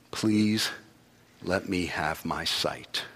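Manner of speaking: soft, slow pleading; humble plea. Retold or imitated. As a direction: beg gently for sight.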